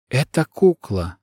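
slow, careful, forced calm; steady yourself and speak evenly; trying to stay calm. Acted. Girl tells the son the truth, forced calm. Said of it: "стараясь как можно спокойнее".

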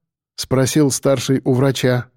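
ordinary delivery, nothing marked

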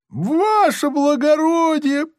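high, slow, drawn-out plea; grateful outcry. Acted. Prisoner cries out to the officer, high and drawn out. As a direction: cry out in desperate gratitude.

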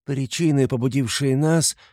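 lofty, high-pitched formal address; haughty. A narrator's reading. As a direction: speak grandly, from on high. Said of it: "начала она свысока". (свысока, церемонно)

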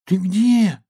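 high, calling piglet voice. A narrator's reading. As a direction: call out like a small piglet. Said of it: "позвал поросёнок".

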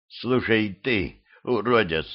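slow rasping insult; raspy whisper. Acted. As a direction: rasp it out, voice parched. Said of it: "прохрипела Юля".

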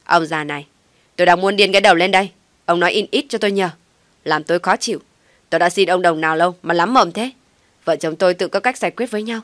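irritated retort. A narrator's reading. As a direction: snap at the old man to shut up. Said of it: "thở mạnh ra khó chịu đáp".

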